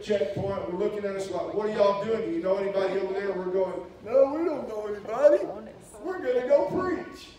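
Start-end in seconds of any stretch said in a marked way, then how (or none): 1.5-3.3 mock guard voice. Border guards questioning the preachers. 4.0-7.3 high, loud and eager, slowing at the end; excited retold reply. Preacher answering the border guards, high and eager.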